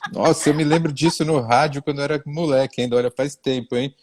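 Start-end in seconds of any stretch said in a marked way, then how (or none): 0.1-3.0 words tumbling out fast through real laughter; laughing while talking. Real, not acted. Guest recalling an old radio ad, talking fast through laughter. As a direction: laugh your way through the memory, quickly.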